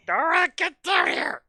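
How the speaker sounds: high, loud holler; shouted call. Pretend. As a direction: call them down here at full voice. Calling someone over loudly.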